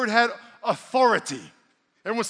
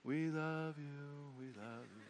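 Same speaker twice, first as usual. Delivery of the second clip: slow, much softer, sappy cooing; mock demon worship; 5 semitones lower, 19 dB quieter, much slower than usual. Preacher mocking the demons' fake worship, slow soft coo. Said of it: "the demon will tell you, "This is how you should worship".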